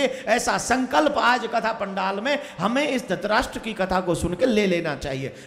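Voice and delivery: loud, ringing call for a vow; rousing call. Real, not acted. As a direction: rouse the whole tent. Preacher rousing crowd to vow. (कथा पंडाल को ज़ोर से प्रण के लिए ललकारना)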